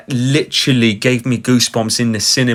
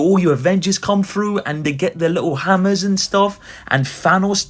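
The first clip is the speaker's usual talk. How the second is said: mocking Marvel fans; 6 semitones higher than usual. Real, not acted.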